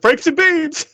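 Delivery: high yell of Franks and Beans from afar; background yell. Retold or imitated. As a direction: call it out across a distance. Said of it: "you hear in the background".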